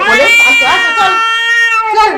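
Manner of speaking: a high, loud, repeated call to coax the pet along. Real, not acted. Coaxing the pet.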